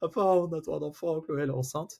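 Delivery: mock high, tearful, crying speech. Retelling phoning his father, imitating his own crying. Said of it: "je lui dis en pleurant".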